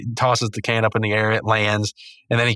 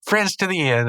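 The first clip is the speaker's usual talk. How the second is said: raised-pitch charades guess; lightly voiced Pops; 8 semitones higher than usual. Pops guessing at Rigby's charades, pitched up. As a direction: imitate a cartoon character guessing, higher. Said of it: "and he goes".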